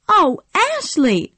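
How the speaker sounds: high, slow anguished cry. Acted. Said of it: "cried Scarlett and burst into tears".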